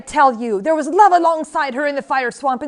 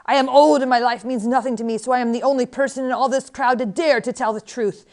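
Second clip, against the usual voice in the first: raised, ringing voice of outrage; unquieted tirade; 4 semitones higher, 6 dB louder than usual. A narrator's reading. Old woman will not be quieted, rails at the queen, yelling. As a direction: rail on loudly, hammering each insult. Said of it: "would not be quieted".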